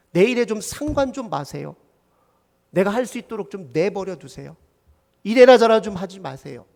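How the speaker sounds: fed-up grumbling that rises into protest; acted anger at others. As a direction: vent resentment, sharpening toward the end. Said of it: "타인을 향한 분노의 마음입니다".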